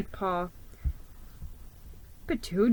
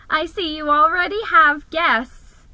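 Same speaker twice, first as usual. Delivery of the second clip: smiling; 6 semitones higher, 6 dB louder than usual. A narrator's reading. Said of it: "Squeaky said, smiling".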